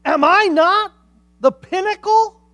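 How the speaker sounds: high, loud boasting prayer; proud Pharisee. Acted. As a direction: crow it out, full of yourself.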